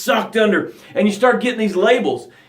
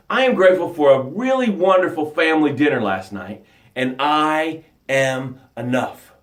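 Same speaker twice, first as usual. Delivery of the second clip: sample gratitude; 3 semitones lower than usual. Shown as a demonstration. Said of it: "This is how it sounds".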